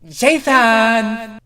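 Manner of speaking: high, loud call down the tunnels; shouted call. A narrator's reading. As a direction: yell for your friend across the maze. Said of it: "Thorax shouted out into the maze".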